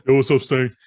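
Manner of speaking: loud, high mock greeting; put-on persona greeting. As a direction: call out in a hammed-up radio voice. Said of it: "I gotta talk like that".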